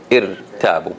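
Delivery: irtabu with a soft, thin r; common mistake, soft ra. Shown as a demonstration. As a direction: show irtabu the easy, wrong way, r light. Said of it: "So they would say".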